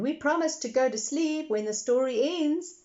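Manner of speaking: put-on high earnest little girl. A narrator's reading. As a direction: promise like a small girl. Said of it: "added Peppa".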